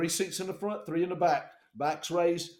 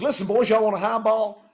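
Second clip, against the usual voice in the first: loud, higher pilot voice; imitated hearty call-out; 4 semitones higher, 8 dB louder than usual. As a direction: holler an offer to the boys. Drunk pilot calls to passengers.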